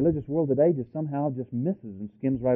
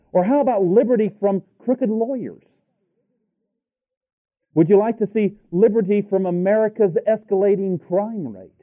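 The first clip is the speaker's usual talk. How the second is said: high, ringing rhetorical questions; raised-pitch preacher's challenge; impassioned preaching; 9 semitones higher, 5 dB louder than usual. Real, not acted. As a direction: fire the questions at the congregation.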